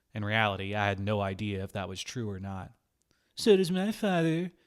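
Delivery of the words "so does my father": high, loud, shrill, whiny mimicry. Mocking the narrator's words back at him, whining imitation of Amir. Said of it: "Osip mimicked me in a whining voice".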